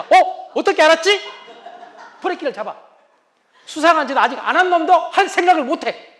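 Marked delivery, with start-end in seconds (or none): 0.0-1.2 startled husband. Retold or imitated. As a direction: caught off guard, high and loud. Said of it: "깜짝 놀라서". (깜짝 놀란 남편)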